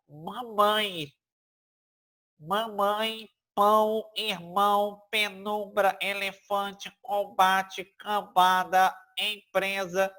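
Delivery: words like mamãe, pão, irmão hummed through the nose; nasal vowels. Shown as a demonstration. Teacher contrasts them with papai, nasal-vowel demonstration. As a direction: list mamãe to empresa one by one, letting the nasal vowels ring. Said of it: "passou aqui pelo nariz".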